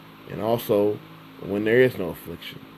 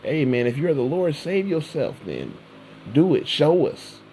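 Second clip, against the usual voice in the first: higher-pitched mocking jeer from the crowd; mocking taunt; 6 semitones higher than usual. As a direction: taunt him like a scoffer in the crowd. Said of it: "while they were mocking him".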